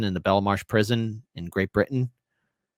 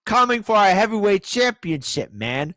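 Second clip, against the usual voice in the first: high-pitched, over-the-top title-defence rant; mock champion trash talk; 10 semitones higher than usual. Host warns rivals off his championship belt, hammed-up high outrage. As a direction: squeal it out like a riled-up champ.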